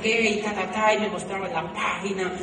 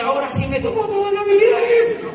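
exasperated; 13 semitones higher, 9 dB louder than usual. Retold or imitated. Inner exasperated thought.

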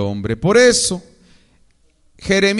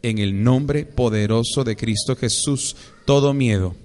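prayer declaration. Acted. Y diga conmigo.

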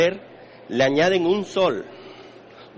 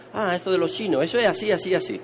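higher-pitched imitation of glib dismissal; mock know-it-all; 5 semitones higher than usual. People reacting to his Eastern arts, mock know-it-all. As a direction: imitate someone who thinks they know it all.

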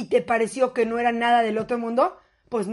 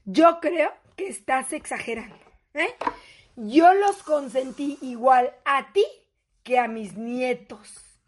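condescending mother; 2 semitones lower, slower than usual. Acted. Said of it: "te dice con este tono la cabrona".

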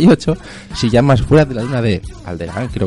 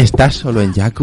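sexy voice. Acted. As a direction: say it like a seduction. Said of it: "en plan sexual".

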